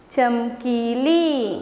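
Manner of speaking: very slow, चमकीली stretched out; teacher modelling चमकीली slowly; slowly blended word. Shown as a demonstration. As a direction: read it slowly so children can follow. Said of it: "च / म / की / ली, (syllables spelled out first)".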